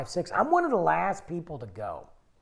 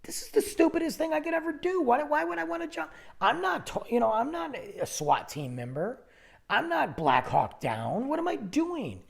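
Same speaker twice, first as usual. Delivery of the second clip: retold panic; 8 semitones higher than usual. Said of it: "and I'm like".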